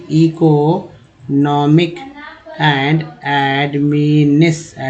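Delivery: slow, deliberate reading of each word for learners; slow reading aloud. Shown as a demonstration. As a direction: read it out slowly, word by word. Slow syllable-by-syllable reading lesson. (धीमी गति से पढ़कर सुनाना)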